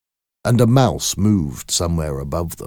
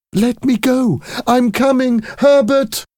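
much higher, louder calling out; frantic shout; 5 dB louder than usual. Acted. Mother calls to her son at the door, high shout. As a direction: call to him, straining to get free. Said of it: "she shouted".

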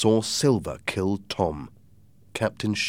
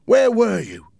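stern question; 14 semitones higher, 8 dB louder than usual. A narrator's reading. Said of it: "the captain asked".

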